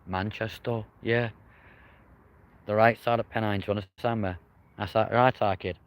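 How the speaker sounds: lightly put-on Manchester accent; a rough go at Mancunian, casually; half-baked Manchester accent. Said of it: "my shit attempt at a Manchester accent".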